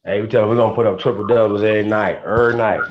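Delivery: rally the room with it; excited boast. Real, not acted. Boasting to the stream guests.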